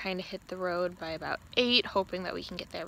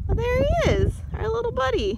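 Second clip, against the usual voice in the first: calling from far away; 7 dB louder than usual. Real, not acted. Spotting the bison from afar.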